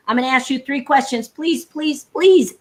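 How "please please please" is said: rattled-off, insincere "please, please, please"; fast insincere please. Shown as a demonstration. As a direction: throw away "please, please, please" quickly without meaning it. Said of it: "I don't say it like this fast and, you know, insincere".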